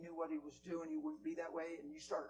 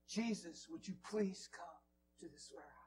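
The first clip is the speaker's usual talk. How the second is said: a touch more voice, earnest plea; repeated prayer; 3 dB quieter than usual. Retold or imitated. Preacher re-voicing the lady's prayer, earnest. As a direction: say the prayer again, sincerely. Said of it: "And I've been praying".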